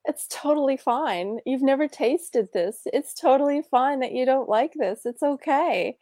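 lightly voiced encouraging mother; reassuring mom. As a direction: soothe a child about new food. Mother reassuring son in retold scene.

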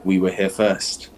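mildly menacing cultists telling a stranger to leave; cold hooded men. Acted. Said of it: "but then they go".

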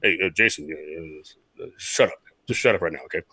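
very low, muted grumbling skipper; Jim Leyland impression. Manager hushing his former player, low subdued impression. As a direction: imitate the manager quietly shutting someone down. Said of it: "That's how he talks".

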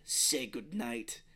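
slow, deliberate villain's threat; mock menace. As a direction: imitate a captor delivering final words. Acting pirates threatening captives.

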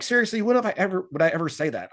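high, incredulous dude; mock disbelief. Paul to scammed followers, high and incredulous. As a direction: voice rising in disbelief. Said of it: "I'm like".

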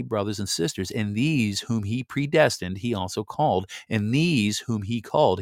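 measured, solemn Bible reading; scripture reading. Acted. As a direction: read it like a preacher, stately. Reads scripture aloud.

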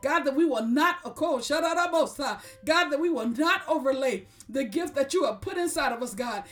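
prayer. Acted. Leads a closing prayer.

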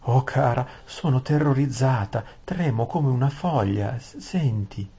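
high trembling-voiced young girl; frightened maid. Saralin tells Aravis she is shaking, high frightened voice.

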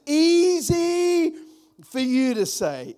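easy thrown high and loud; exasperated retort. Shown as a demonstration. Pastor mocking complainers, high exasperated retort. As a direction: fling easy up high in protest.

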